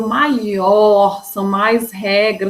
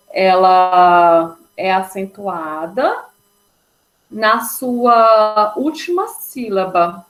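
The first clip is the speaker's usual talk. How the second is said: slow emphatic teaching; much slower than usual. Shown as a demonstration. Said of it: "sendo ela a mais forte".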